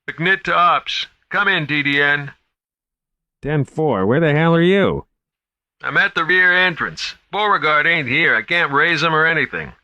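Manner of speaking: high, worried guard on the radio; guard calling in, a little lost; nervous young guard. A narrator's reading. McNitt radios from exhibition.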